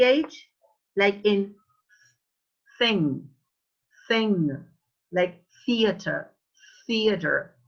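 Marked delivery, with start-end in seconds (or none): 2.8-4.6 thing with the tongue between the teeth; TH sound. Shown as a demonstration. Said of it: "tongue between your teeth". 5.7-7.6 theater starting with tongue between the teeth; careful TH at the front of theater; TH sound. Shown as a demonstration. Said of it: "The, the tongue between your teeth".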